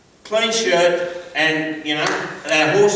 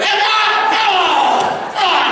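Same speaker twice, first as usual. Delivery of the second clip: retold yelp; 11 semitones higher, 4 dB louder, much slower than usual. Father yelps, jumps from chair.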